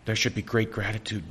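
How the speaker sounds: talking through hiccups. Real, not acted. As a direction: speak between hiccup jolts. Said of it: "Since I keep hiccuping".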